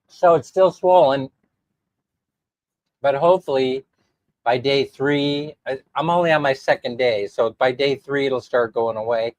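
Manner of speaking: congested nose and sore throat; blocked nose. Real, not acted. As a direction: talk through a blocked nose. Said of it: "You can hear it, you know, clogging up my nasal passages".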